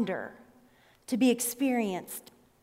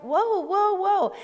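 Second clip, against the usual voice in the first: backing off; 8 semitones higher, 3 dB louder, slower than usual. Retold or imitated. Backing off from yelling driver.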